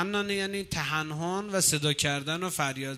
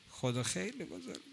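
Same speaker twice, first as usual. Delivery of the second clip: خدا خیلی بزرگه breathed out much softer; near-whispered awe; 10 dB quieter than usual. Real, not acted. Preacher marvelling at God to the congregation, almost whispered. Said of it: "ولی خب، خدا خیلی بزرگه".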